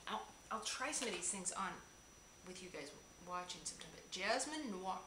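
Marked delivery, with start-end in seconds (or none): 0.1-3.9 soft confiding whisper. Real, not acted. Telling viewers she'll try things later, whispering. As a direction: whisper it as an aside.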